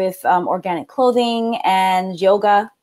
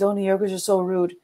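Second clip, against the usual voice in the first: mocking quote; 6 dB quieter than usual. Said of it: "what they say about New Yorkers".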